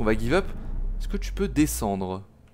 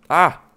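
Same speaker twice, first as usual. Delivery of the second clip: loud startled cry; startled yelp; 5 semitones higher, 10 dB louder than usual. Real, not acted. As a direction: jump and yelp. Jump scare.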